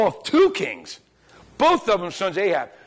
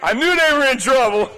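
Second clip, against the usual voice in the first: high, loud, laughing delivery; 5 semitones higher, 4 dB louder than usual. Real, not acted. Preacher recalls his reply to a congregation, laughing. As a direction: laugh through the words, pitched up. Laughing while recounting own remark.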